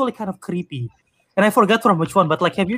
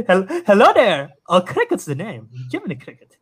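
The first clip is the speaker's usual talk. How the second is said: Ewan McGregor as Jiminy. Pretend. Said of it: "imagine if you can hear Ewan McGregor saying it".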